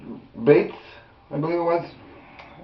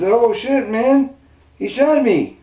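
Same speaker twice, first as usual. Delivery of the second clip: high, pained disbelief; mild panicked victim; 11 semitones higher, slower than usual. Retold or imitated. Man just shot, voiced in high panic. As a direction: cry out you've been shot. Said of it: "Eric Harris says".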